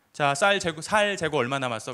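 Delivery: imitated Gyeongsang accent, tense ㅆ softened to ㅅ; Gyeongsang dialect. Army superior asks the clerk about rice stock, imitated Gyeongsang dialect. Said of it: "경상도 사투리로".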